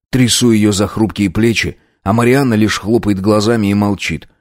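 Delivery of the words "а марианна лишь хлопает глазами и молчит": plain reading voice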